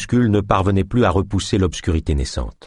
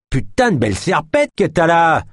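higher, eager exclamation; exclaiming; 8 semitones higher than usual. Acted. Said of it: "s'exclama ce dernier". (exclamation avide, plus aiguë)

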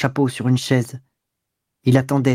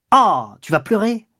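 higher, slow, mocking; scornful mock; 7 semitones higher than usual. A narrator's reading. Lover mocking his mistress as she starts crying. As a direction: taunt her tears. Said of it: "Quand il vit les larmes arriver".

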